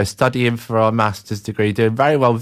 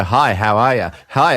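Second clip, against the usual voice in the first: put-on South African accent; 4 dB louder than usual. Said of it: "so I did a South African accent".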